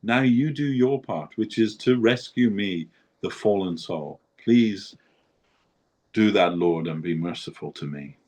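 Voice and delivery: pleading prayer to Krishna. Retold or imitated. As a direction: beg the Lord, voice lifted high. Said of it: "He said something like that".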